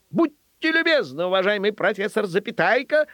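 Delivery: high, ceremonious address; courteous ringmaster. Acted. Trainer politely addresses his dachshund onstage, courteous ringmaster. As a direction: play up the mock-formal politeness.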